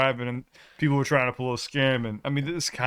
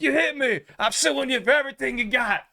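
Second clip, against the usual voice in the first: high, raised mock complaint; angry scammer; 9 semitones higher than usual. Scammer threatening the drivers with a lawsuit, high mock outrage. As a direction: threaten to sue, pitched up. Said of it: "He's like".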